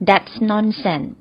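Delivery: very slow, careful teaching read; slow model phrase. Shown as a demonstration. Teacher slowly models the phrase for learners. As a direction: spell out each sound for the class to copy. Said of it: "เราก็ใช้สำนวนนี้ก็ได้ค่ะ".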